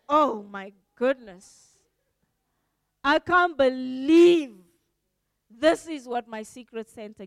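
a hint of a sulky receiver; disappointed. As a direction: let them hear the letdown.

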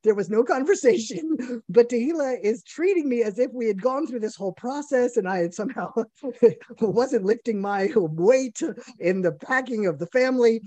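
high, laughing, incredulous rant; husband protesting a dream, laughing and high; laughing disbelief. Retold or imitated. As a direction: laugh through the absurdity of it. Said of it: "And I'm like".

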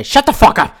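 a loud, mocking shut up; mock shout. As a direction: bark it at the employees. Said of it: "they say".

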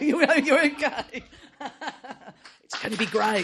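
high, loud, laughing through the words; laughing reassurance. Real, not acted. Host to scared-looking author, laughing reassurance. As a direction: reassure while breaking up laughing.

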